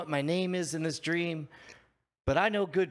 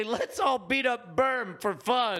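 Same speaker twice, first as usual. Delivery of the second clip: slow, higher rallying shout; 5 semitones higher, slower than usual. Acted. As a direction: rouse the crowd to a fight. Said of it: "I say".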